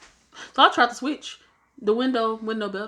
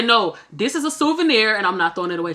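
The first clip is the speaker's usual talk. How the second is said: retold refusal; 6 semitones higher, 7 dB louder than usual. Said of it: "I say".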